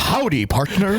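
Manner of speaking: high, drawn-out Boston cowboy greeting; Boston accent. Shown as a demonstration. Greeting a stranger to amuse friends, hammed-up Boston accent. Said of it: "hearing a Boston accent say".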